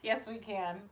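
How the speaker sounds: laughing fit. Real, not acted. Laughing fit while wiping tears.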